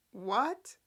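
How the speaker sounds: ordinary talk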